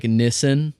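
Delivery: Nissan said NISS-un; actor's pronunciation. Retold or imitated. Host quoting Orlando Bloom's repeated word, imitated pronunciation. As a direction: say Nissan with short first vowel, stressed. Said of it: "in his accent in a way".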